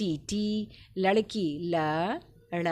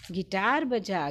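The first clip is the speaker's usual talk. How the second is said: put-on slow, deliberate reading for children; slow dictation; slower than usual. Shown as a demonstration. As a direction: spell it out slowly for the class. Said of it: "ग पर छोटी की मात्रा".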